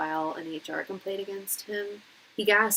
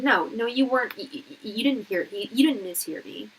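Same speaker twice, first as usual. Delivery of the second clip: mock angry instructor; 3 semitones higher, 3 dB louder than usual. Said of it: "he was like".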